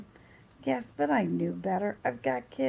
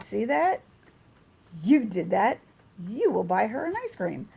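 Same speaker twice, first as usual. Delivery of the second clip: louder, emphatic mock telling-off; retold scolding; 5 dB louder than usual. Mother telling friend he caused this, retold loud scolding. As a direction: lay down the law to a friend, punching the words.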